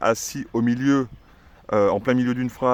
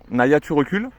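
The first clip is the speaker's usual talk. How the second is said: louder, rising "recules"; firm command; 3 semitones higher, 4 dB louder than usual. Shown as a demonstration. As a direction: give the order firmly. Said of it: "on va mettre ça sur le recul". (ordonner fermement à la chienne de reculer)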